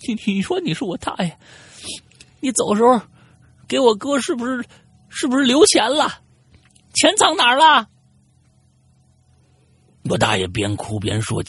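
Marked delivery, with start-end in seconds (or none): 0.1-7.9 high, stammering, nervous question gaining volume; tentative probing. Acted. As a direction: start halting, build to an eager high cry. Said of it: "我就试探着问我". (结结巴巴地高声试探)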